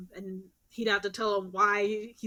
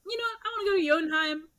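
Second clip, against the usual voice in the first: excited; 9 semitones higher, much faster than usual. Retold or imitated. Thor voiced, sudden idea.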